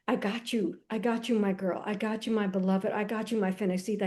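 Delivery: soft, low reassurance repeated; tender God voice. Retold or imitated. God comforting her through divorce, tender and soft. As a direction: hold her close with each line. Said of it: "he was like".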